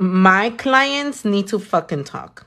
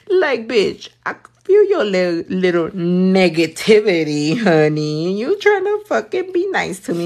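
sassy call-out. Acted. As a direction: playfully tell off a fake-nice hater. Acted telling-off of a fake-nice hater.

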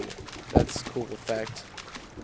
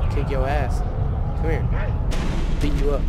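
put-on belligerent drunk; 5 dB louder than usual. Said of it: "acts like a black guy".

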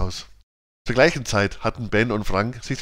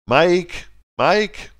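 loud, high shout of the name; shouting at full voice; 8 semitones higher, 5 dB louder than usual. A narrator's reading. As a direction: yell it with everything you have. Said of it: "schrien die beiden Mädchen jetzt aus vollem Halse".

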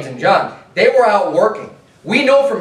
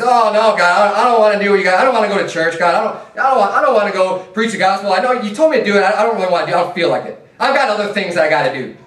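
put-on whiny excuse-making child; 4 semitones higher than usual. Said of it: "this type of an attitude".

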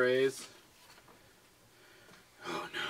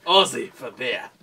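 slow, loud mock Aussie; Aussie accent; 5 dB louder, slower than usual. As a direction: lay on a hammy Australian twang.

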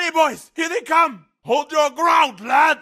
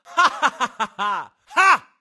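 battle laugh; 6 semitones lower than usual. Acted.

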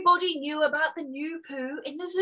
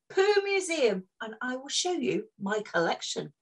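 Hector's voice. Acted. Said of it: "said Hector".

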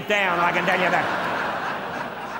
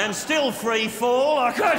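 building comic yell; 5 semitones higher, slower than usual. Acted. Comic boast to the audience.

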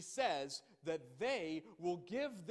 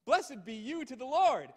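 loud self-satisfied claim, higher and louder; proud Saul; 4 semitones higher, 8 dB louder than usual. Acted. Saul boasting to Samuel, loud and proud. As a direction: boast like a man sure he obeyed.

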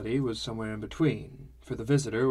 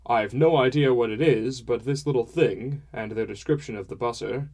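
a hint of a hearty, talkative father; father's voice, mildly put on; lightly voiced father; 6 dB louder than usual. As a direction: lightly play a father holding forth, a little raised.

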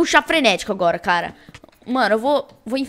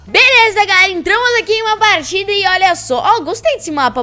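YouTuber intro; 7 semitones higher, 6 dB louder than usual. Acted.

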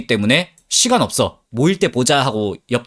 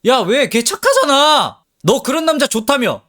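mock-sweet teasing, much higher and slow; teasing friend; 10 semitones higher than usual. Male friend teasing her about her admirer, sing-song mock voice. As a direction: needle her like a smirking buddy. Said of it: "보급형 우빈이가 날 놀리기 시작해".

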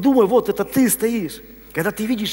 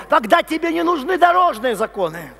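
ordinary talk, nothing marked

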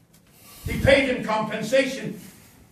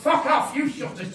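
loud, high defiant retort; shouted back; 5 semitones higher, 4 dB louder than usual. Retold or imitated. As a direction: throw it back at them, then laugh it off. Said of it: "I used to shout".

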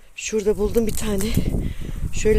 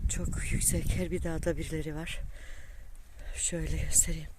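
whispering; 12 dB quieter than usual. Real, not acted. Quiet aside while filming.

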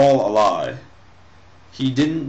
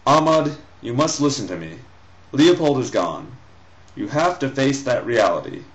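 stern mother. Acted. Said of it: "Rainey spoke sternly".

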